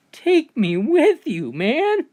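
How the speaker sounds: high, loud, pleading take me with you; eager pleading dad. Acted. Dad begging his son to take him along, high and eager. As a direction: beg like a dad desperate to escape.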